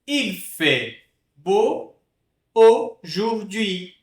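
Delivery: very slow, syllable by syllable; slow model French. Shown as a demonstration. Teacher slowly modelling the last sentence. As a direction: stretch out "Il fait beau aujourd'hui". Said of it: "teacher models sentence".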